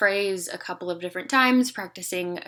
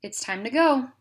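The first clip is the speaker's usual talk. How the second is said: exclamation; 5 semitones higher, 4 dB louder than usual. Shown as a demonstration. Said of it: "sounding excited if it's an exclamation".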